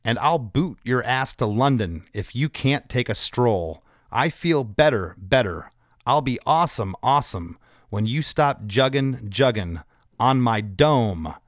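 measured, mock-serious reading of lyrics; straight-faced recital. Shown as a demonstration. Host reading the silly verse to its writer, straight-faced. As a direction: recite each phrase deliberately, holding back the laugh. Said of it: "try to say it with a straight face".

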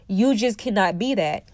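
phlegmy throat, needs clearing; talking through mucus in the throat. Real, not acted. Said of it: "I have a mucus in my throat".

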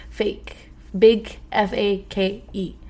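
F A K E spelled out slowly, letter by letter; slow spelled-out fake; spelled for emphasis. Shown as a demonstration. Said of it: "that is just fake".

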